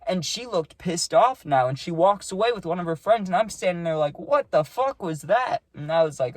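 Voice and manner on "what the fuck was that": higher and slower, words drawn out in shock; staring after her, baffled; shocked disbelief. Retold or imitated. Left standing after the slap, muttering in shocked disbelief. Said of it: "like, shocked".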